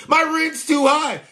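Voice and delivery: high, whiny mock complaint; mocking whine. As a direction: whine it like a crybaby. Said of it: "they're gonna be crying about this".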